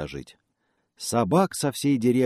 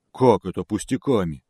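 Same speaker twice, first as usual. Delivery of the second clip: offended; 4 dB louder than usual. A narrator's reading. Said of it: "обиделся медведь".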